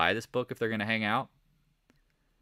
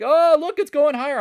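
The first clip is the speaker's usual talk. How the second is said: mock excited; 10 dB louder than usual. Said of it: "And we were like".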